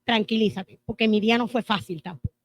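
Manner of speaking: quick, defensive comeback; snappy retort. Pretend. Wife answering her frustrated husband, a quick defensive retort. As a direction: throw his tiredness back at him. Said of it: "Tengo la opción de decirle".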